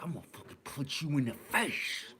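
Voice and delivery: mock crackhead threat.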